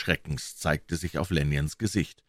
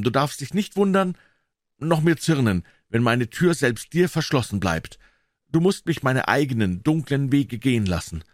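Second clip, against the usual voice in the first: higher, pleading tormented man; anguished Jekyll; 4 semitones higher than usual. Acted. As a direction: read it as a guilt-ridden confession. Jekyll's letter voiced.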